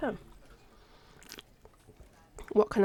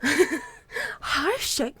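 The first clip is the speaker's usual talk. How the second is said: laughing; 6 semitones higher, 6 dB louder than usual. Real, not acted. Laughing greeting on return.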